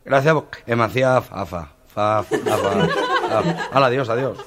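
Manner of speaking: stuck repeating fa fa; stutterer. Retold or imitated. Stutterer thanking the owner, stammering with laughter. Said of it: "el tartamudo".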